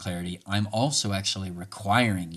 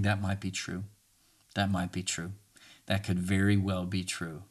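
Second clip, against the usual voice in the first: calm agreement; 4 dB quieter than usual. Shown as a demonstration. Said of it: "Just say it with me".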